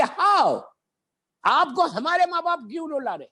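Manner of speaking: voicing shocked companions, a sharp How; a mild cry of disbelief, voiced; shocked question. Preacher voicing the shocked companions' question, mild disbelief. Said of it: "مسلمان وہ شاک".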